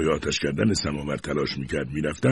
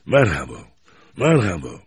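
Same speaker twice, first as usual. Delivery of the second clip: mocking taunt; 4 dB louder, slower than usual. A narrator's reading.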